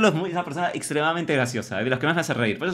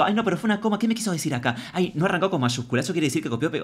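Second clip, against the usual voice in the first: overanalyzing crush; 3 semitones higher, faster than usual. Acted. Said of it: "y analizás todo".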